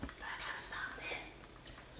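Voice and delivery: slow amused whisper. Real, not acted. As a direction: whisper it slowly, half laughing at yourself. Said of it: "Every time I start whispering".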